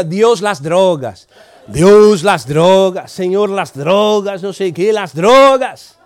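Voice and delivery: mock fervent repeated prayer. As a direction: pray insistently, stuck on one phrase. Retelling a colleague's fervent prayer.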